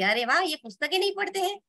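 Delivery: a touch of wonder at the news; mild astonishment. Acted. Master learning that Ramakrishna reads no books, mildly astonished. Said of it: "उन्हें और भी आश्चर्य हुआ".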